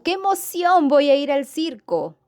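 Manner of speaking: high, thrilled cry of delight; excited exclamation. Shown as a demonstration. Teacher acting out an excited exclamation for students, thrilled and high. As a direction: squeal it out like a happy kid going to the circus. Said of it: "el hablante pretende expresar una emoción".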